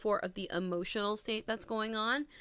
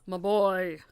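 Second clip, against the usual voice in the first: loud, drawn-out mock-motherly greeting; lightly hammed-up proud parent, punching key words; playful doting mom; 7 dB louder, slower than usual. Mom to everybody greets her son, playfully doting.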